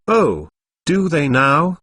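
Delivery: slow, mock-amazed "oh"; fake surprise. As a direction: play at being surprised, drawn out. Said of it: "Nina faked being surprised".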